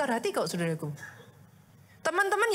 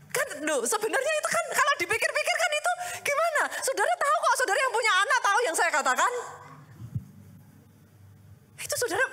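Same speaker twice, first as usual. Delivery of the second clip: laughing appeal; 9 semitones higher than usual. Real, not acted. Pastor teasing parents in the congregation, laughing high.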